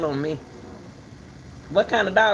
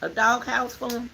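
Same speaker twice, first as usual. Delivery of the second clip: higher mock question; mocking retort; 8 semitones higher than usual. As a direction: throw his words back at him. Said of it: "And I said".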